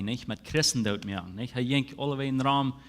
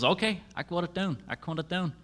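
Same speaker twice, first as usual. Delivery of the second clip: eager Moses; 6 semitones higher, faster than usual. Retold or imitated. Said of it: "En dan zegt Moses".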